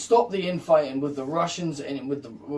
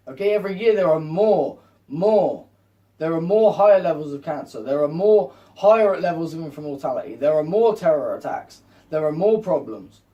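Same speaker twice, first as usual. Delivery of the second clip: loud emphatic; 5 dB louder than usual. Real, not acted. Ranting warning to viewers.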